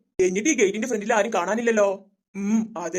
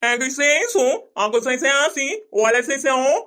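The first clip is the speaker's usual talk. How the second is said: fake French gibberish; much slower than usual. Man fakes fancy dish names.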